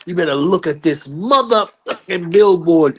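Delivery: high, emphatic angry comeback; getting the last word. Retold or imitated. Father pointing Joe to the Billboard chart, angry last word. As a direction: imitate a man triumphantly cursing someone out. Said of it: "he got his last word".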